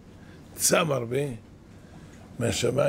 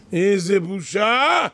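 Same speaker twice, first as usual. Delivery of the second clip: outraged exclamation; 5 semitones higher, 7 dB louder, much slower than usual. Acted. Preacher decrying a shameful situation.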